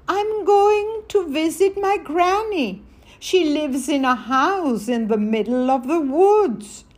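a hint of a bright child answering; little girl. Little Red Riding Hood answers wolf.

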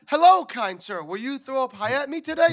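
mock polite gentleman. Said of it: "if I was like".

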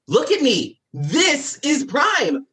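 dramatic. Acted. Cameron dramatic to dad.

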